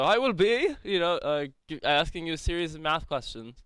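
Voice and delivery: a hint of a hammy stage actor; thespian voice. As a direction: restate it in a mildly grand stage voice. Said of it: "it's my thespian voice".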